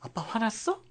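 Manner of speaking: put-on high-pitched quoted child's question. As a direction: echo a kid's high, questioning voice. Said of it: "가끔 듣는 얘기가 아이들한테".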